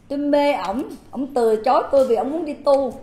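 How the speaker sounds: ordinary talk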